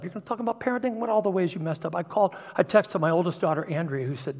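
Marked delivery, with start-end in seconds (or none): 0.0-1.9 retold accuser's taunt. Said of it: "the enemy reminded me of all the ways".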